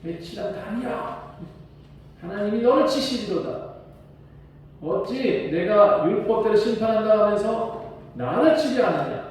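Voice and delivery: Paul yelling rebuke. Retold or imitated. Paul shouting a rebuke at the high priest. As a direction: rebuke the hypocrite judge. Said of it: "이렇게 소리를 질러버렸어요".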